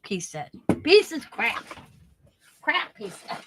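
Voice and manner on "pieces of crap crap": higher-pitched mock dismissal; old German repairman. Scissors man judging her scissors, mock scorn. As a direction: imitate the tradesman's scornful verdict. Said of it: "that's how he talked".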